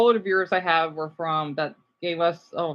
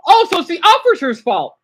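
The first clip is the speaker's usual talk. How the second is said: sarcastic; 9 semitones higher, 10 dB louder than usual. Real, not acted. Sarcastic reaction to dashcam clip.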